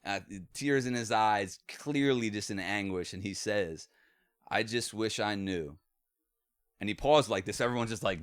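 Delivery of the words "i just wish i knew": slow dying words. Retold or imitated. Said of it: "it was so slow".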